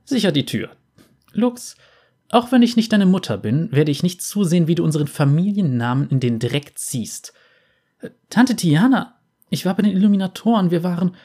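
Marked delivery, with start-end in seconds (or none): 1.3-7.3 stern aunt. Acted. Stern aunt scolding niece. 8.3-11.2 high, fast, urgent protest; pleading young woman. Acted.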